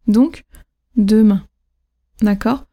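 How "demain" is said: "demain" low with MAIN accented; deMAIN, first syllable level, last one dropping; last-syllable stress. Shown as a demonstration. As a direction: land on the end of "demain". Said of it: "sauf la dernière".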